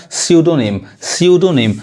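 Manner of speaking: स्यूडोनिम said as "syu-do-nim"; स्यूडोनिम with no p sound; silent P. Shown as a demonstration. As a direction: start स्यूडोनिम on s. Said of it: "पी नहीं पढ़ाएगा".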